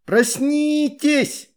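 high, slow shout to wake them. A narrator's reading. Girl shouting at the lazy boys, loud and high. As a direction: cry out to rouse everyone. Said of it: "крикнула она".

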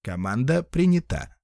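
crackling machine voice; crackly voice. Acted. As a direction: crackle like a broken speaker. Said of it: "раздался трескучий голос".

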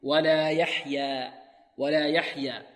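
very slow ولا يحيا, held long; careful recitation. Shown as a demonstration. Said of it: "تكتب يا في آخرها".

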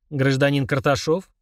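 slow, cold metallic voice. Acted. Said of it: "металлическим голосом".

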